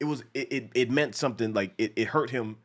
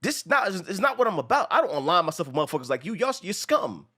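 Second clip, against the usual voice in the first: a hint of Frank, higher and scornful; Frank's contempt; 5 semitones higher than usual. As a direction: spit it at the fan in contempt. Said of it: "he's like".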